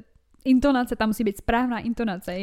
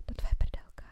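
soft, unvoiced murmur; mock bedroom whisper; imitated whisper; 6 dB quieter than usual. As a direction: whisper it as if leaning close. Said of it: "ale to, že šeptáš".

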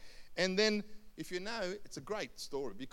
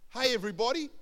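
raised voice calling the whole shop; mock public announcement; mocking shopkeeper; 6 semitones higher, 10 dB louder, faster than usual. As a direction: hail a crowd, high and loud. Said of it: "he's a real mocking kind of guy".

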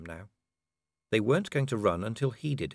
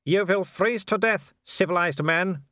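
high, loud gloating taunts; mocking werewolf; 8 semitones higher, 4 dB louder than usual. Wolfgang gloating at Vimes from below, loud and high. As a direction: play with him like prey.

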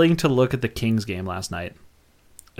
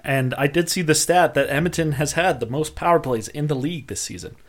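drinking club soda mid-sentence; while sipping a drink; 3 semitones higher than usual. Real, not acted. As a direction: talk around a sip of soda. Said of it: "Sorry, I'm drinking this club soda".

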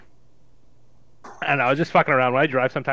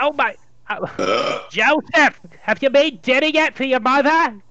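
put-on Jewish mother accent; 3 semitones higher, 4 dB louder than usual. Older Jewish mother asks her son about dinner, in a loud Jewish accent. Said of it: "Jewish accent".

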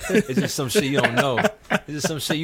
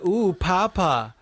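put-on girl papa; 4 semitones higher, much slower than usual. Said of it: "if a girl said".

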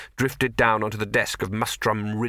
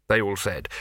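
ordinary delivery

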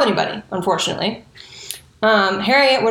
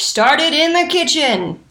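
higher, slow and insistent; a near-yell about the kitchen; raised voice; 5 semitones higher, slower than usual. Real, not acted. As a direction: push the line out at the listener. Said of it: "I'm yelling at you".

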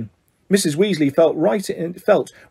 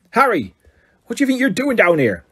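gruff calling out; 6 semitones higher than usual. Acted. Hagrid calls out to Harry.

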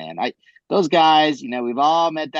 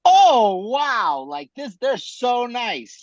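mock German accent; 9 semitones higher, much slower than usual. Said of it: "in the German accent".

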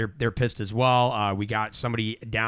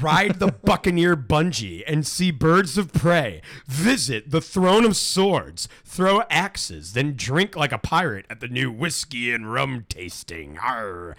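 punchy festival announcer read; promo read; slower than usual. Acted. Host reading the festival's attractions to listeners, hammed-up promo read. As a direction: sell each attraction with hammed-up gusto.

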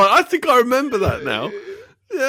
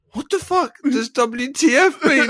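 higher-pitched incredulous question, amused; quoted film line; 4 semitones higher than usual. Retold or imitated. Quoting favourite film line to co-host, incredulous. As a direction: ask it baffled, laughter close behind. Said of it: "the line when he says".

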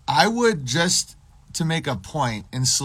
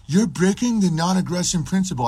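higher, indignant put-on voice; mock protest; 5 semitones higher, 3 dB louder than usual. Captive being whipped protests to the warlord, mocked high voice. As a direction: object in a mock whine.

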